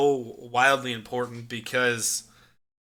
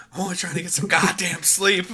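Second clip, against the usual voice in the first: retold outburst; 5 semitones higher than usual. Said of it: "he just loses his shit completely".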